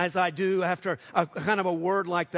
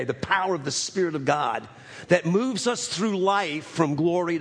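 prayer; 2 semitones lower than usual. Acted. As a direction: pray it over the congregation, unhurried. Closing prayer before sermon.

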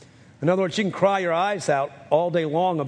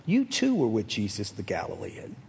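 put-on servant girl; 7 semitones lower, 4 dB quieter than usual. Servant girl voiced in retelling.

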